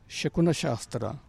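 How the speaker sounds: Shakuna Shastra said slowly and distinctly; careful, measured repeat for a learner; slowly, on request. Shown as a demonstration. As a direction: spell out the term by ear, word by word. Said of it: "Can you say that slowly, please?".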